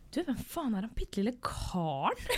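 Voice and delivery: soft quoted question through laughter; laughing quote. Retold or imitated. Host quoting Runar about the tiny stranger, laughing. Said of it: "Runar som er sånn".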